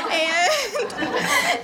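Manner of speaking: high, hammed-up crying whine; mock blubber, half laughing; tearful wail. Patient breaking down before her doctor, mock wail. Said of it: "puddles of tears".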